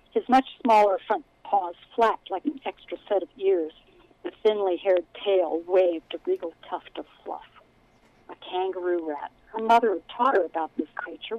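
steady storytelling read; story narration. A narrator's reading. Author reads her book aloud.

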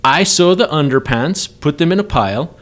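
loud. Acted. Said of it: "He loudly told them".

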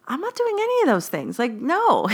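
high-pitched flat-out refusal; firm refusal. Retold or imitated. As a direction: snap back at mom with a firm no. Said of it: "I snap".

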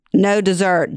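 a short, curt, irritated no; annoyed bark. Retold or imitated. Husband refusing the guests dessert, curt and annoyed. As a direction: cut the request off with mild annoyance. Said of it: "Jimmy barks annoyingly".

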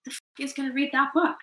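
mock-scoff at a ridiculous idea; incredulous outburst. To the book agents on the phone, an incredulous retold scoff. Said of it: "I was so deflated ... I was like".

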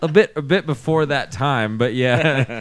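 ordinary talk

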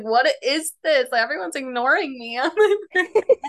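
lightly indignant, breaking into a laugh; retold salty. Retelling family ignoring her on supposed birthday, mildly salty. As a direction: grumble it, amused at your younger self. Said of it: "I was so salty".

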